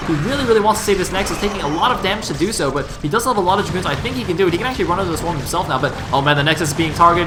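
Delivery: keyed-up esports commentary; urgent running match call; excited play-by-play. Real, not acted. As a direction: call the rush live as it unfolds. Live play-by-play of Nexus attack.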